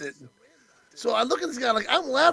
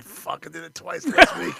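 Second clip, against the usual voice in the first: mock confession, laughing; 6 semitones lower than usual. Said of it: "I was like".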